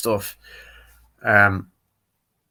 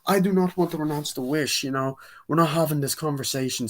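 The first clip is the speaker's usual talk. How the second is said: higher-pitched mock indignant refusal; acted-out argument; 5 semitones higher than usual. Woman arguing with Steve about the wish, indignant. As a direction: imitate someone refusing to discuss it. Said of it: "they have an argument".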